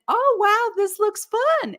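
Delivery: retelling her own excited reaction to the video. Retold or imitated. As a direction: gush about the fun game. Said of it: "And so I went".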